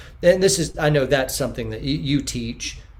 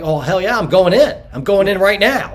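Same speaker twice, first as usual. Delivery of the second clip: loud, pumped, higher and eager; fired up; 6 semitones higher, 9 dB louder than usual. Retold or imitated. Man imagining rescuing his baby girl, loud and fired up. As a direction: shout it like you'd charge straight in.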